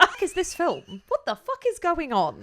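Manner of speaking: can't believe what you're hearing; amused disbelief. Real, not acted. Disbelief at casting news.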